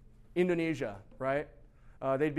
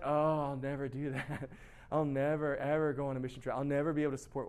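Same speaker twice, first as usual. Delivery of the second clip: mock whiny reluctance. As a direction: play the reluctant churchgoer moaning. Mimicking immature Christian's grumbling in the pew.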